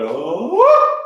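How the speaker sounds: high, loud sighing oh. Shown as a demonstration. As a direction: let a sigh ride out on the oh. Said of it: "that sigh".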